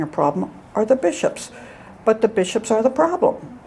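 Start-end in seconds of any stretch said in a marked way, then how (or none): 2.0-3.6 said through a laugh. Real, not acted. Priest repeating the punchline to his listeners, laughing. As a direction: chuckle at the irony as you say it.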